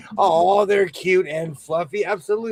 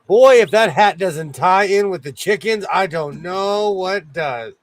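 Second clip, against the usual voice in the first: excited gushing; 3 semitones higher, 6 dB louder than usual. Real, not acted. Gushing over the hat.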